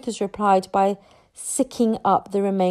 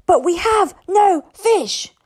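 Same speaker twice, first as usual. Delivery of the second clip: slow, loud, higher, measured statement; firm but pleasant; 10 semitones higher, 6 dB louder, slower than usual. A narrator's reading. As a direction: dominate the creature with slow, firm words. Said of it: "make his voice sound firm but pleasant".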